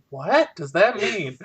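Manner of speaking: slow, baffled retold question; retold confusion. Retelling a reaction to the co-host, mock baffled. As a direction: act out being mildly puzzled, drawing it out. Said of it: "I got really confused".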